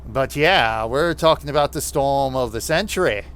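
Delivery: demonstrating a nasal New England accent. Shown as a demonstration. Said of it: "the New England accent".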